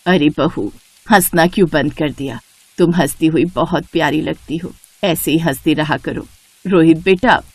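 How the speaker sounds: put-on older woman urging her son's widow to smile; lightly voiced mother-in-law. Mother-in-law Shobha speaks to Aarti.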